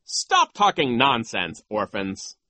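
loud, slow dismissal; scornful vice principal. Acted. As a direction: scold the orphans with contempt. Voices Vice Principal Nero.

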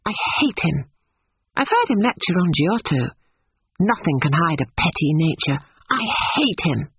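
lightly voiced indignant young woman; petulant Lucy. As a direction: state the dislike, pitch climbing at the end.

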